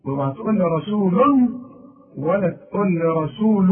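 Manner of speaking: رسول said two wrong ways; mock the wrong forms of رسول; imitating two mistakes. Teacher mocking students' wrong readings. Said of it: "ده خطأ وده خطأ".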